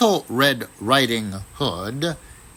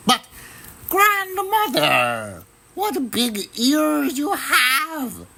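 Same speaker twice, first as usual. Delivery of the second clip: put-on much higher, sweet girl's voice; little girl voice; 13 semitones higher, slower than usual. A narrator's reading. Little Red Riding Hood answers at the door, girlish and much higher. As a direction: sound like a small innocent girl.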